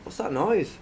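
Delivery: exaggerated rising tune on "What's that noise?"; put-on inflection. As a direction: act out "What's that noise?" with a lifted questioning lilt. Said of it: "like, when you go".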